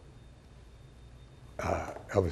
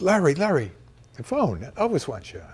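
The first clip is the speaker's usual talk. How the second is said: urgent call; 4 semitones higher, 3 dB louder than usual. Retold or imitated. Someone rouses him from deep thought.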